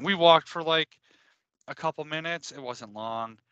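ordinary delivery

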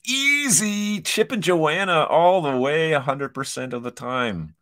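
high, loud burst easing off; excited. Real, not acted. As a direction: blurt out an easy favourite with delight. Instant favourite pick on quiz.

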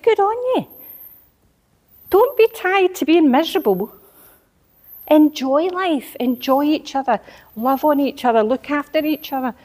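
retold preaching. Encouraging family who changed their mindset, fervent preaching. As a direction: lift them up like a revival preacher. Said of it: "you were preaching at them".

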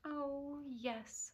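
soft wistful sigh. A narrator's reading. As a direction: breathe the yes out softly. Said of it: "sighed Cinderella".

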